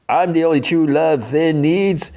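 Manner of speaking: pushy high princess voice; mock high-pitched boast; Lumpy Space Princess. Lumpy Space Princess shoving, acted.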